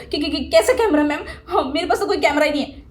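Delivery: mock stammered denial; teasing parrot of a feigned-innocent student; mocking imitation. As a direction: lightly mimic his flustered excuse. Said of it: "मुझे पता था कि तुम यही बोलने वाले हो".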